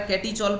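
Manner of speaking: catechol said "KET-ee-chol", with a ch sound; common mispronunciation. Shown as a demonstration. Teacher quoting students' common misreading, mispronounced catechol with a ch. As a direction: say catechol wrongly with "chol" at the end. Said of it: "pronunciations mistake यहाँ नहीं करना है".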